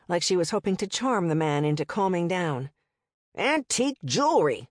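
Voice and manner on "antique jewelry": tight. Acted. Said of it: "the man said tightly".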